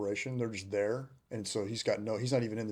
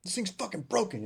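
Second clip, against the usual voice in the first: much higher, mock huffy complaint; mock angry lieutenant; 11 semitones higher, 3 dB louder than usual. Veteran mimicking the lieutenant calling the scope broken, mock huff. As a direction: play the clueless officer fuming. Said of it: "He's like".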